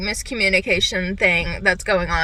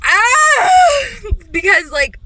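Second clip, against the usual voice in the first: high, loud laughing scream; laughing shriek; 11 semitones higher, 7 dB louder, slower than usual. Real, not acted. Reader shrieks at the fictional character, laughing. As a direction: burst out with a frustrated laugh.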